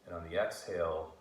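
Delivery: calm, measured meditation voice with long pauses; guided meditation. Acted. Guiding listeners to breathe out tension and stress, calm meditation voice. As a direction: ease them gently through each breath.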